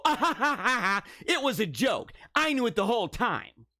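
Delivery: mock her smug laughing reveal; mocking fake laugh. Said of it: "you go".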